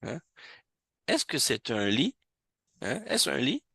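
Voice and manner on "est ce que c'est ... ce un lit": « lit » qui monte en fin de question; intonation interrogative. Shown as a demonstration. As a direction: finissez sur une montée nette. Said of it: "mettre la bonne intonation". (question modèle, montée sur « lit »)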